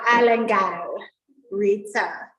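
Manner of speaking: attempted Jamaican accent. Shown as a demonstration. Host introducing the next margarita by name, attempted Jamaican accent. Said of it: "that was my best Jamaican accent".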